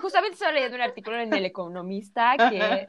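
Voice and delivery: laughing, fast mock-cultured voice; imitating someone pretentious; posh intellectual parody. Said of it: "Ah, justamente".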